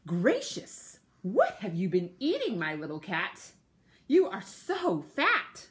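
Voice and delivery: put-on girls marvelling at the cat, pitch up, slowing on the last words; astonished dancing girls. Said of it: "and they too said to him".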